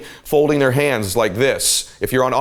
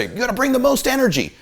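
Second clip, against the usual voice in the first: higher-pitched mock pep-talk line; hyped-up slogan; 11 semitones higher than usual. Speaker mimicking people preaching high energy, hyped-up. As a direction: quote it like an eager hype man. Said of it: "ever heard people say".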